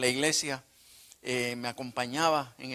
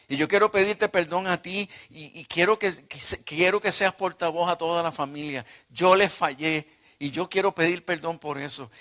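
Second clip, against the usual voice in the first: raised, emphatic plea for forgiveness; earnest confession; 4 semitones higher, 4 dB louder than usual. Retold or imitated. Father confessing his failings to his son, earnest and insistent. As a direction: confess insistently, pitch and volume lifted.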